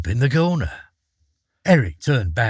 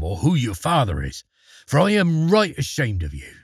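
a hint of a scornful father; gruff father; 2 semitones higher than usual. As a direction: disown him coldly. Father disowns son.

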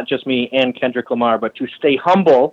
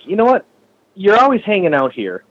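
exasperated; 5 semitones higher than usual. Retold or imitated. Scolds the freeloading friend.

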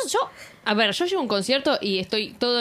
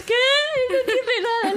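confused. Retold or imitated. Friend confused outside the door.

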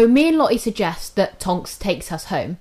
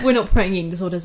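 laughing; 2 semitones lower, much faster than usual. Real, not acted. Laughing disclaimer mid-story.

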